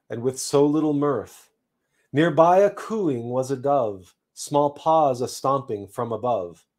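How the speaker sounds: measured, rhythmic storytelling; poem recitation. A narrator's reading. Poet recites to livestream viewers a verse about being a seed, dramatic recitation.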